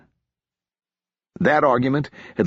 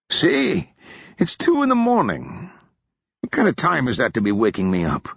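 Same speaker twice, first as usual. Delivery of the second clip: put-on lightly raised, groggy drunk officer; a hint of a hungover gentleman complaining; drunk officer woken; 5 semitones higher than usual. Odric grumbling to Marcus about being woken, lightly raised.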